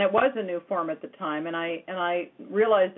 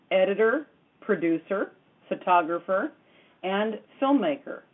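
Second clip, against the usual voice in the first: measured, scripted show-opening read; radio host introduction. Acted. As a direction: introduce yourself and tonight's guest to listeners.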